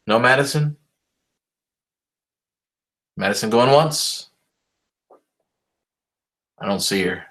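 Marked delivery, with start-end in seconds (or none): 3.2-4.3 auctioneer call. Pretend. Mock auction call for absent student.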